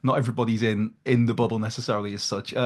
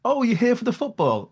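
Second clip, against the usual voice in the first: higher, bright mock question from the staff member; the staff member who doesn't know him, higher mock voice; 12 semitones higher, 3 dB louder than usual. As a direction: play the clueless waitress, pitched up. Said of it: "she picked up on the accent and was like".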